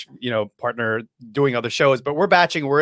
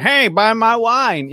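hyped pitch voice; 9 semitones higher, 5 dB louder, slower than usual. Retold or imitated. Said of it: "Gary Vee started out just turning the camera on".

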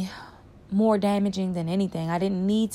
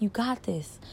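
whisper; 8 dB quieter than usual. Retold or imitated. Whispered self-reassurance.

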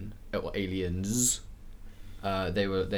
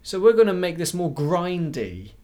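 mocking developer voice; 6 semitones higher, 4 dB louder than usual.

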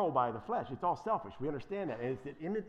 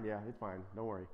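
mock casual approval; 8 semitones lower, 8 dB quieter, faster than usual. Mocking churches that condone anything.

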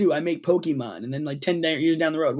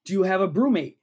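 mock ad read; 3 semitones higher than usual. Performs a mock sponsor read.

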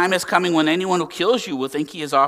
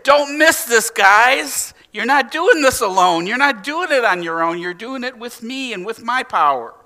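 emphatic; 6 semitones higher than usual. Retold or imitated. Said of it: "He made it so emphatic".

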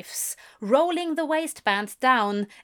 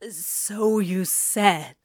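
slow, wavering reply; words barely holding steady; trembling voice; 2 semitones lower, much slower than usual. A narrator's reading. Crowley answering Aziraphale, voice trembling and slow. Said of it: "Crowley's voice trembled".

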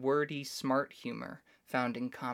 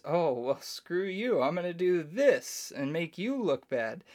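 higher, louder playful one-upping; mock taunting; 4 semitones higher, 4 dB louder than usual. Spouse teasing spouse in a mock comeback, louder and higher. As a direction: needle your partner, half-joking.

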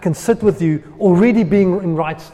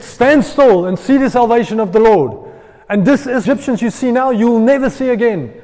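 proclaiming Moses; 5 semitones higher, 6 dB louder than usual. Acted.

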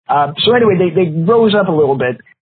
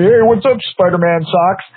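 taunting bully; 4 semitones higher than usual. Retold or imitated. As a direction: sneer it like a go-to insult. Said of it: "Every time he saw me".

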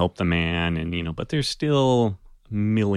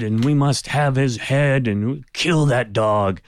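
angry mob; 4 semitones higher, 3 dB louder than usual. Acted. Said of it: "really angry and agitated".

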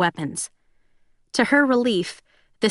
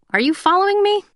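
playful question, much higher; teasing; 12 semitones higher, 3 dB louder, faster than usual. A narrator's reading. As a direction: gently tease her. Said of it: "he was teasing her".

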